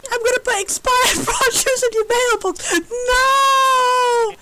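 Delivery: high, hammed-up tearful yell; a pouting robot swearing petty revenge; mock threat. Spurned robot yelling a petty threat, tearful.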